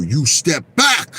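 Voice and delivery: slow firm bodyguard warning. Retold or imitated. Bodyguard warning the fan away from Don King, slow firm. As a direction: order him back, slowly and firmly. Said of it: "They go".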